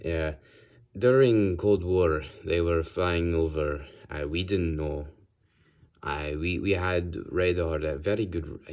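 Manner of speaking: put-on improvised Russian accent; amateur Russian henchman accent, halting. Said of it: "I'll do a Russian accent".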